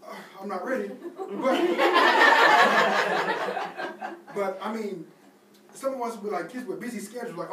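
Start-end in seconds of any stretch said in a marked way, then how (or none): 1.3-4.3 loud laughter. Real, not acted. Congregation laughs at kids remark.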